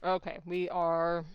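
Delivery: talking while chewing food; slow words round a mouthful; mouth full. Real, not acted. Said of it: "Excuse me chewing into the mic".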